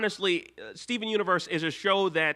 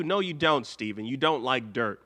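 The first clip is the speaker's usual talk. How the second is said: ordinary talk, nothing marked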